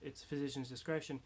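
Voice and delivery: muffled behind a face mask; talking through a mask. Real, not acted. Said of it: "I'm wearing a mask right now".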